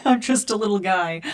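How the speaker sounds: playful plea for mercy, lightly put on; meek little guy. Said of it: "and I look at you of just".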